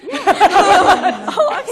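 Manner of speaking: bursting into a real laugh; loud startled laugh. Real, not acted. Laughs on being asked.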